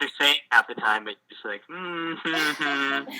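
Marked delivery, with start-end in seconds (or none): 1.7-3.1 fake nodding along. Faking understanding in lessons.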